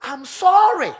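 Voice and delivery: mock earnest apology. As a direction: beg forgiveness. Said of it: "He said, say".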